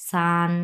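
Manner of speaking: সান on a long level pitch; sustained first-tone সান. Shown as a demonstration. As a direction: hold সান steady, neither rising nor falling. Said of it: "প্রথম tone".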